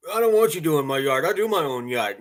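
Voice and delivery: loud, high mock yell at a stranger; hammed-up grumpy homeowner; mock angry yell. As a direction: shout him off the lawn in fun. Rude customer mock quote.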